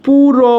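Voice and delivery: "পুরো" with the final o held out; deliberate, sustained "পুরো"; pronunciation demo. Shown as a demonstration. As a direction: break off "পুরো" and dwell on its vowels. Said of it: "অ উচ্চারণ হচ্ছে না?".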